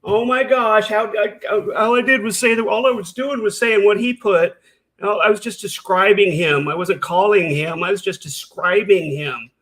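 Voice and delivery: hammed-up imitation of Carrie playing the victim; mocking Carrie.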